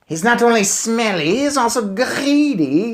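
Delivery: disgusted witch aside; sneering witch. A narrator's reading. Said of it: "said the Grand High Witch".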